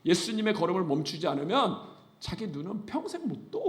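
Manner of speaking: ordinary talk, nothing marked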